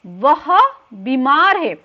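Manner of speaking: वह drawn out and set apart, slowly; slow, emphatic वह, then a stretched बीमार है; stress on the pronoun. Shown as a demonstration. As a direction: lean on वह as the replacement word.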